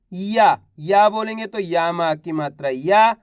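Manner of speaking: slow syllable by syllable; slow sounding out. Shown as a demonstration. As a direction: build the word slowly. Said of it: "teacher sounding out syllables". (धीमे-धीमे अक्षर जोड़ते हुए)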